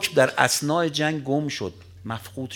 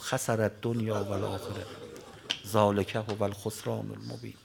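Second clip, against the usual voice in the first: mournful murmur; 4 semitones lower, 6 dB quieter than usual. Acted. Humiliated man murmurs verse.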